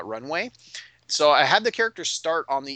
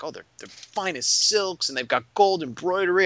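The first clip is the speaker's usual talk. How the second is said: hamming it up; 4 semitones higher than usual. Retold or imitated. Game master describing yellow cloaks to players, hammed-up. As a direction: lay on the admiration. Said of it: "I'm really hamming it up".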